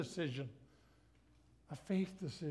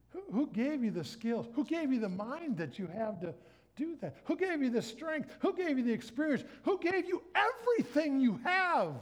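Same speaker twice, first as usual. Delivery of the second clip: climbing higher and louder each question; building challenge; 8 semitones higher, 3 dB louder than usual. Real, not acted. Preacher challenging the proud, building to a loud high peak. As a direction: press harder with every who.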